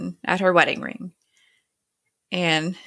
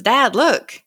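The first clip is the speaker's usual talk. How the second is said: higher, lightly raised call; child calling out; 5 semitones higher, 4 dB louder than usual. Retold or imitated. Walt to his dad on the raft, mock calling out. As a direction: imitate a boy getting dad's attention.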